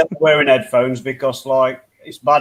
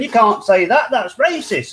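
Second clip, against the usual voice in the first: high-pitched mock outrage; whiny-complainer send-up, pitched up; mock offended snowflake; 5 semitones higher than usual. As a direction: imitate someone easily offended. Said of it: "all the snowflakes started saying".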